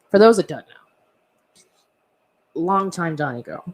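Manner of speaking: slow whisper, confiding; slow conspiratorial whisper; whispered aside. Real, not acted.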